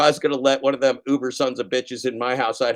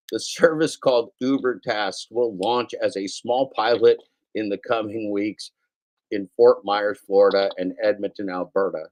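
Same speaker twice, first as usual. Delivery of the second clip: news read. Acted. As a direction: still reading the news straight. Reads news item on air.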